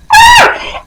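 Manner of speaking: short, very high "ah"; a sudden high squeal of emphasis; high-pitched exclamation. Real, not acted. Exclamation after praising gratitude.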